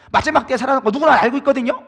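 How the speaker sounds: sulky retort. Retold or imitated. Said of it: "막 이렇게 얘기하는 거예요".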